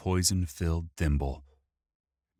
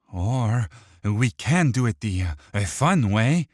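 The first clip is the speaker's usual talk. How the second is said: menacing villain; 5 semitones higher, 7 dB louder than usual. Acted. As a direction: relish the threat. Dirge menacing.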